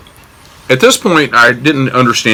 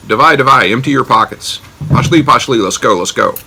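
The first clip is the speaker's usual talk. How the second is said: mock riot act; 4 semitones higher than usual. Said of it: "started reading me the riot act".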